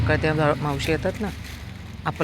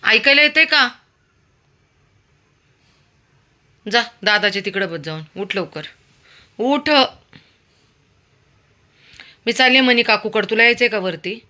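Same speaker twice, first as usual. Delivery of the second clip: urging the dog; 6 semitones higher, 8 dB louder than usual. Real, not acted.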